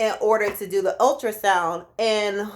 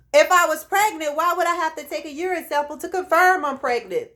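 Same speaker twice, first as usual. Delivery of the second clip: retold indignant protest; 7 semitones higher than usual. Acted protest to clinic staff.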